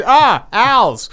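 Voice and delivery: high, loud cry of alarm; mock alarmed yell. Translating Grimace's yell at the owls, mock alarm. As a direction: yelp it in mock panic.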